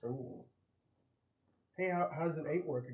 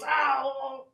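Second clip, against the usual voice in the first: creature yelp; 10 semitones higher, 6 dB louder than usual. Acted. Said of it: "And it just goes".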